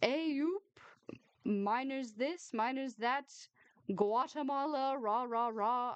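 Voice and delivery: hammed-up northern Yorkshire voice; mock the northern accent broadly. Miffy mocking Emma's northern accent. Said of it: "Your accent".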